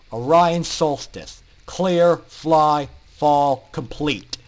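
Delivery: calling out. Acted. Instructor calls next student.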